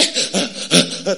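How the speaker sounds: quick huffs of breath; imitated panting, rhythmic and brief; mimed running pants. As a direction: puff like someone running. Mimes time running again.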